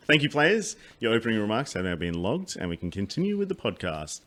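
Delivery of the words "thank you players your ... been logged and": mock quizmaster sign-off; game show host. Host thanking players like a game show.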